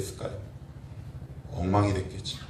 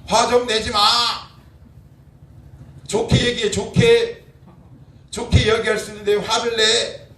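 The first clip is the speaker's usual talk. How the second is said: higher and louder, a mock scolding yell; wife's angry scolding; 6 semitones higher, 6 dB louder than usual. Pastor mimicking his wife scolding him over the document work. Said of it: "갑자기 우리 아내가".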